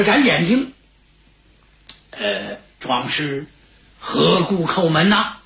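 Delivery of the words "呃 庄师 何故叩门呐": put-on slow, hesitant old servant; puzzled old man. Old steward to an unknown caller at the gate, slow and puzzled. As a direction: draw out the question with an elderly hesitation.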